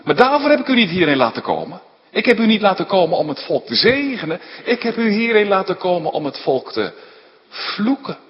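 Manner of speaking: fast, high, loud complaint; indignant protest. Acted. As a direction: rattle off the reproach. Balak protesting to Balaam.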